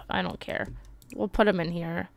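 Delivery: soft whispered shrug; whispered aside. Real, not acted. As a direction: toss it off under your breath. Muttered aside.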